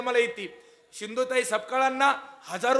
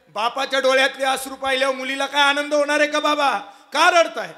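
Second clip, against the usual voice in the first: daughter's worried voice; 5 semitones higher, 8 dB louder than usual. Acted. Daughter voiced asking father.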